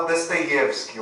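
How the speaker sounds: "Dostoiévski" with unstressed o as a, stressed ye; "Dostoiévski" in Russian, stress on the "ye"; Russian pronunciation. Shown as a demonstration. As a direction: say "Dostoiévski" as "Dastayevski". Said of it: "ele é pronunciado como A".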